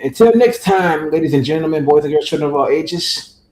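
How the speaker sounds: lightly hammed ringmaster sign-off; ringmaster announcer. Show sign-off, showman flourish.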